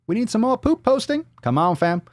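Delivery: high, excited goading; hyping the crowd. Acted. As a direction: egg the audience on. Hyping up audience for segment.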